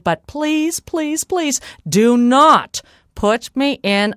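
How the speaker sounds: mildly overplayed dread; feigned pleading. Molly begs giant not to sack her, mock pleading. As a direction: beg a little too earnestly.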